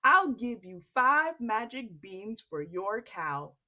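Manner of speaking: a hint of a tempting trader; sly stranger. Stranger offering Jack beans, lightly voiced. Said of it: "said the man".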